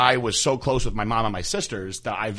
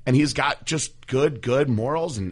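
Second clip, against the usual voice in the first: scolding mom; 5 semitones higher, 4 dB louder than usual. Retold or imitated. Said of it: "And I was like".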